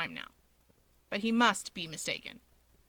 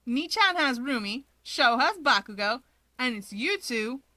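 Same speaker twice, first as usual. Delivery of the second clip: cheerful listing; 2 semitones higher, 4 dB louder than usual. Acted. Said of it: "Natsuo soldiers on".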